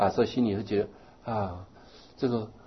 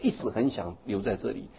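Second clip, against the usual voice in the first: put-on old lady complaining; 4 semitones higher, 7 dB louder than usual. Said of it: "她说".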